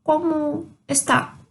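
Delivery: ¿Cómo está? asked slowly; slow model question. Shown as a demonstration. (pergunta lenta de exemplo)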